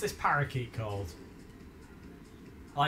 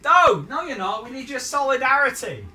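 loud, higher protest; outraged shout; 8 semitones higher, 12 dB louder than usual. Real, not acted. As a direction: shout him down. Protesting friend's desertion.

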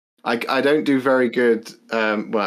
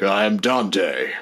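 Dante voice; 2 semitones lower, much slower than usual. Retold or imitated. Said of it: "Dante's just over there like".

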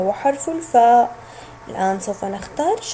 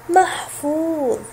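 slow repeat; 2 semitones higher, slower than usual. Shown as a demonstration. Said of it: "فحرف الواو الأخير".

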